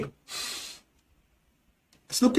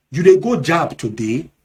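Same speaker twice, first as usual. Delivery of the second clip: Nigerian Pidgin; 4 dB louder than usual. Shown as a demonstration. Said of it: "in Nigerian Pidgin English".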